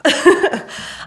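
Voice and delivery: short breathy nervous laugh. Real, not acted. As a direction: laugh off the nerves. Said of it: "Sorry, I'm a little nervous".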